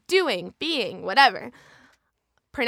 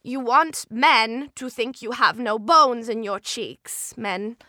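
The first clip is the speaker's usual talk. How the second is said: Sailor J. Shown as a demonstration. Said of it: "Sailor J from The Contouring".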